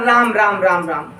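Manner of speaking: low राम राम sinking in grief; sorrowful lament. Shown as a demonstration. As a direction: demonstrate a mournful, falling repetition. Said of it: "दुख को दर्शाते हैं".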